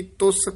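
ਤੁਸ with a firmly pressed s; compact, firm ਤੁਸ; slightly tight. Shown as a demonstration. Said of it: "ਥੋੜਾ ਜਿਹਾ ਕਸ ਕੇ ਉਚਾਰਨ ਕਰਨਾ ਹੈ".

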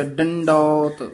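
ਡੰਡੌਤ slowly with a clear nasal n; nasal tippi sound. Shown as a demonstration. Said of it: "ਡੰਡੌਤ ਪੋਲਾ ਨਹੀਂ ਬੋਲਣਾ, ਉੱਤੇ ਟਿੱਪੀ ਲੱਗੀ ਹੋਈ ਹੈ".

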